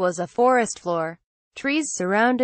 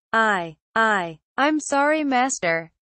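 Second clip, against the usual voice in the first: stammering servant. Acted. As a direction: stumble over the first words, a hint of a cowering servant. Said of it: "The voice stammered".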